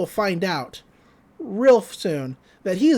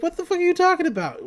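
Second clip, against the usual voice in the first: outraged yell; 11 semitones higher, faster than usual. Retold or imitated. Bully outraged at Satsuki.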